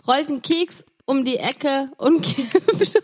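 can't get the punchline out for laughing; laughing through joke. Real, not acted. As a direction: joke broken by a giggle. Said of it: "ich lach noch ein bisschen bescheuert dahinter". (Pointe mit Lachen erzählt)

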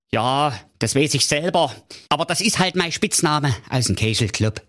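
king owning up to his nickname, a bit sheepish. Acted. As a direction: mumble it like a blushing king. King embarrassed.

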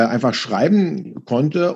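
normal talking voice

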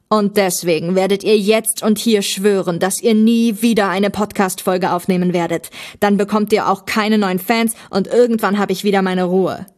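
loud, insistent villain's ultimatum; demanding villain. Acted. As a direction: lay down the law as a fed-up bad guy.

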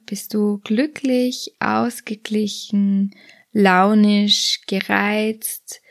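soothing body scan narration; guided meditation. Acted. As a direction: lead the listener gently through a body scan.

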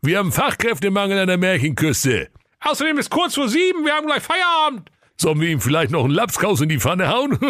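very high mocking brothers, laughing; mocking laughter. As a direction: ridicule the stranded caller. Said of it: "lachten nur und äfften den armen Mann nach".

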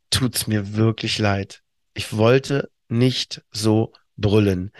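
langsam und leise, ganz ehrlich; aufrichtige Entschuldigung. Shown as a demonstration. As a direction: ruhig und reuevoll entschuldigen. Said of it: "kannst in Gänze sagen". (langsam und leise, aufrichtig reuevoll zum Gegenüber)

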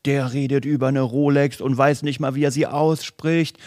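lightly voiced scandalised commenter, drawing out the end; a hint of indignant online critic; mock indignant commenters. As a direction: mimic an outraged nitpicker, mildly. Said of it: "Und dann ging's richtig los".

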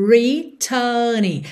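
returning with the first R rolled, middle R dropped. Shown as a demonstration. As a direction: curl the R at the start of returning. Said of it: "eu realmente enrolo a língua". ("returning" com o primeiro R enrolado)

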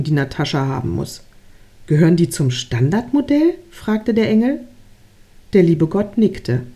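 measured read-aloud storytelling; story narration. A narrator's reading. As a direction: read it like a gentle fable, pausing between phrases.

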